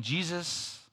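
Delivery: mild mock plea; pleading cry. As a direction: beg for mercy from afar. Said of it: "now they're saying".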